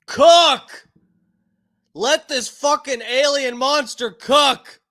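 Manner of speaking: loud, high hype shout; excited cheer. Real, not acted. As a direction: cheer him on at full volume. Cheering the interviewee on.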